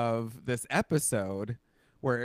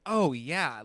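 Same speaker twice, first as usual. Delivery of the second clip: raised, louder dawning recognition; aha realization; 4 semitones higher, 5 dB louder than usual. Retold or imitated. Viewer recalling an aha moment in the movie, dawning realization. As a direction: let the penny drop. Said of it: "that was a aha moment".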